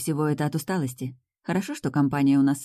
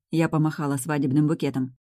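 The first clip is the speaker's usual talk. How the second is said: plain reading voice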